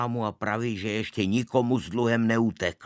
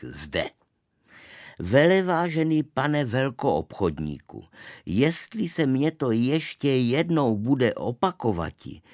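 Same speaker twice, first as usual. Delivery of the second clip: louder, declaimed reading of a stiff complaint; indignant formal letter; 3 semitones higher, 4 dB louder than usual. A narrator's reading. Boy reads the offended confectioner's letter to his father, declaimed indignantly. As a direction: read the letter out loud and indignant.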